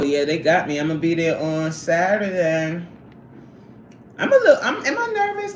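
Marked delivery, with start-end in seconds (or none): 4.2-5.5 high-pitched laughing, flustered; giggly nerves. Real, not acted. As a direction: laugh through a nervous admission. Laughs at her own nerves.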